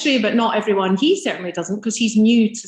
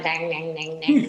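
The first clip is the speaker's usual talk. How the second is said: small, low "dang dang" under the breath; soft, low mimicked tapping noise; imitated little stick noise; 5 semitones lower, 5 dB quieter than usual. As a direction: mimic a tiny stick prodding away, quietly.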